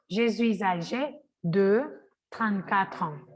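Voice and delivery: je suis âgé de trente-quatre ans, slow, S linked; slow liaison read. Shown as a demonstration. Teacher reading the full sentence slowly. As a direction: read it slowly, sounds joined.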